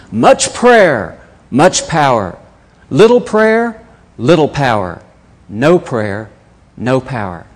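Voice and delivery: put-on preaching punchy slogans in a thick Russian accent. Peter preaching at the morning prayer chapel, in a thick Russian accent. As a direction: boom it out like a Russian preacher with a heavy Russian accent, then let it settle. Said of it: "he had a thick Russian accent".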